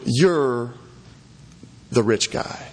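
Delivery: slow "You're", long pause, then "the rich guy" falling; pointed verdict with a pause after "You're"; grave accusation. Retold or imitated. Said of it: "He says".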